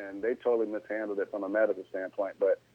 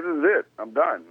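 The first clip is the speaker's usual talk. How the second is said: retold frustration; 3 semitones higher, 4 dB louder than usual. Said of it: "I'm pissed now".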